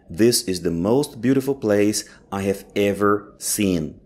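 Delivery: slow, careful teacher read of "This is the most beautiful place I have ever seen."; slow model reading. Shown as a demonstration. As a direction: read it slowly so students can repeat. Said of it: "teacher repeats the model sentence".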